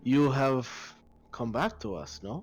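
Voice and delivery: put-on Drow priestess accent with pauses; deliberate Drow accent, questioning at the end. Priestess to the returned sister, Drow accent. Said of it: "the Drow were this accent".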